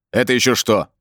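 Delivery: a touch of displeased surprise; disgruntled. A narrator's reading. Brin reacts to the unseen voice, mildly displeased. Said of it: "недовольно буркнул Брин".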